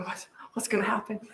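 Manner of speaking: hushed, unvoiced wondering aside; suspenseful whisper. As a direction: whisper it as if holding your breath. Acts suspense during moment of silence.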